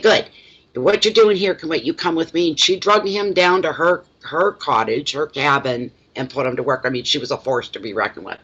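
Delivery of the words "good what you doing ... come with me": higher, louder orders that ease off at the end; bossy loud. Retold or imitated. Old neighbour ordering the startled husband to work, bossy and loud. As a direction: boss him around like a tiny tough old lady. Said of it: "real loud and real like this".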